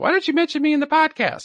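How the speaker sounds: very high, squeaky, clumsy put-on English accent. Quote what his girlfriend from England always says, in a bad English accent imitating Bryn. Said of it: "that was not a very good English accent".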